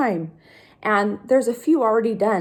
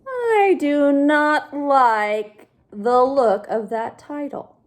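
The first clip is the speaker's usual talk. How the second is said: slow, grumbling pigeon voice; the pigeon sulking at the title; grumpy pigeon; 3 semitones higher, 3 dB louder, slower than usual. Acted. Pigeon grumbles to the kids about the title.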